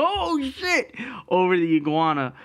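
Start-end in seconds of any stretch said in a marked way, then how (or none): 0.0-0.9 high-pitched mock yelp; startled yelp. Man describes the Twitter clip of himself, startled yelp. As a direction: imitate yourself jumping back in fright.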